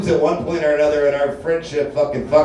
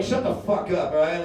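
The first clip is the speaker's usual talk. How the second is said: snapping at the crowd; 9 dB quieter than usual. Retold or imitated. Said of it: "I'm like".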